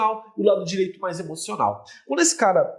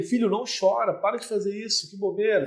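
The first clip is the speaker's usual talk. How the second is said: rational scolding; 3 semitones higher than usual. Shown as a demonstration. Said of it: "se eu fico falando de forma racional".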